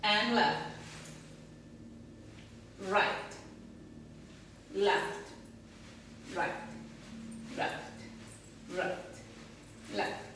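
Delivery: counting out the hip shifts in time; calling the steps. Shown as a demonstration. Teacher calling steps while dancing. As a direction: call left and right on each beat. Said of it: "Now I push to the right".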